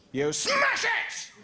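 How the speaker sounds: high, stretched out mock yell; mock outrage at a caterpillar, stretched shout. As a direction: bellow it like a cartoon thug. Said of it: "ranting at caterpillars".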